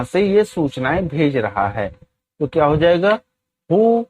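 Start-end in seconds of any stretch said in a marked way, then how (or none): 3.7-4.0 each word spaced out slowly for students to copy; very slow, deliberate classroom dictation. Shown as a demonstration. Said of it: "teacher dictates English sentence".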